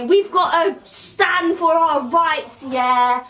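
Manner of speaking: mock rallying speech, pitched a little up; rally the crowd as a spoof revolutionary; lightly hammed-up call to arms; posh rebels. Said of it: "All these posh people say".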